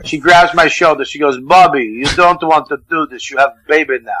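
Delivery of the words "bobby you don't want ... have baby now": lightly voiced Russian woman superintendent; Russian accent. Superintendent warning the new father off a fight, light Russian accent. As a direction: give it a hint of a Russian accent. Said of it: "Russian superintendent, this woman".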